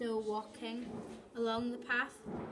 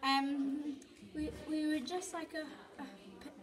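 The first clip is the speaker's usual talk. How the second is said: trembling voice; 3 semitones higher than usual. Acted. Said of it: "my voice trembling".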